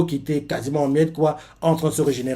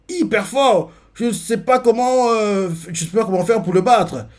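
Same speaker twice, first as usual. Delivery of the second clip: high, urgent and overwhelmed; alarmed; 6 semitones higher than usual. Acted. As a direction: blurt it out in alarm. Hero overwhelmed by the monster.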